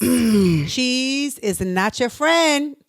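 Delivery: slow warning. Pretend. Teasing singer about dairy.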